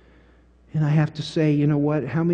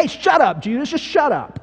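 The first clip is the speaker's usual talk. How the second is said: blunt paraphrase; 9 semitones higher than usual. Retold or imitated. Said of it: "Can I put it in my vernacular?".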